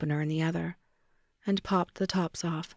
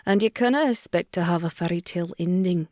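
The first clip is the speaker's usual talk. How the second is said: mildly lowered mock Scottish lecture; imitating him, condescending and a touch louder; mock Finch; 4 dB louder than usual. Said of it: "I lowered my voice".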